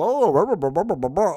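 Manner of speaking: a hint of a chirpy sales pitch; mock cold caller. Mocking cold callers pitching on the phone, a light sales voice. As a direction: rattle off a fake sales spiel. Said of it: "I'm not gonna call and go".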